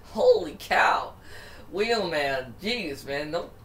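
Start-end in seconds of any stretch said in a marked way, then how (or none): 0.1-1.1 astonished. Real, not acted. Reacting to crash.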